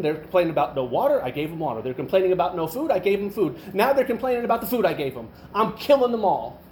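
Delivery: exasperated tally, climbing in pitch; upset God. Retold or imitated. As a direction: act out mounting divine exasperation. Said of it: "was upset".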